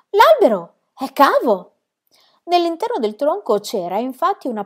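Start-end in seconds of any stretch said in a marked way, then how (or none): 0.1-1.7 loud, high, stretched-out announcement; shouting from above. A narrator's reading. Girl in the tree announcing her discovery, slow loud shout. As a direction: call the discovery down, drawing out the words. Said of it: "gridò di lassù".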